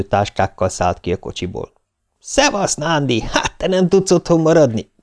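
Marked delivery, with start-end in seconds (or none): 2.0-4.9 lightly voiced paramedic, higher and grinning. Paramedic greets Nándi with a teasing grin, higher voice. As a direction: tease an old colleague with a grin. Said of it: "köszöntötte vigyorgó arccal az egyik".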